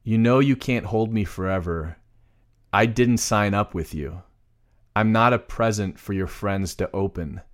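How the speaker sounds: measured, unsung reading of lyrics; plain spoken lyrics. Shown as a demonstration. Co-host reads song lyrics as examples, plain recitation. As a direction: recite the lyric line by line, with pauses.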